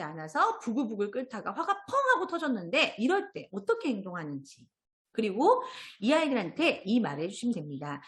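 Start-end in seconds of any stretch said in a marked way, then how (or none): none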